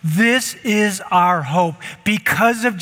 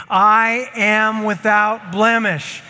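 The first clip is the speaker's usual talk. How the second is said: slow, loud declaration; proclaimed; 3 semitones higher, 3 dB louder, slower than usual. Shown as a demonstration. Pastor leading church in loud declaration. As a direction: lead them, say it big. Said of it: "Say it with me".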